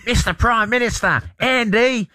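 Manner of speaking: high, cartoonish call to the Prime Minister; squeaky Simpsons-style hail. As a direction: sing out his name like Bart on a prank call. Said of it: "they call to the Australian Prime Minister".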